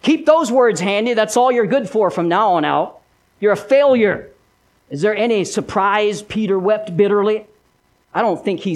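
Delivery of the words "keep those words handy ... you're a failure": lightly voiced sneering accuser; taunting Satan. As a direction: needle him with mild mock scorn. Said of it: "Over and over, he would have tell, told him that".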